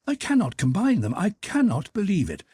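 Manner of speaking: anguished outburst. Acted. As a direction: let the pain break out. Karenin bursts out in anguish.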